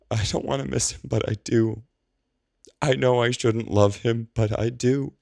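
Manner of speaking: high, teary voice, slowing at the end; half laugh, half sob, voice up high; laughing through tears. A narrator's reading. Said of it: "laughs through her tears".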